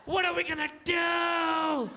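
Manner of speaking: high, frantic half-shouted whisper; panicked yell-whisper. Retold or imitated. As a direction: panic while trying to stay hidden. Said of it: "that yelling, whispering thing".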